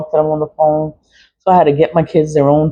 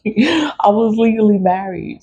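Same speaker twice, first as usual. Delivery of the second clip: laughing through tears; 6 semitones higher than usual. Real, not acted. Laugh-crying over her old name.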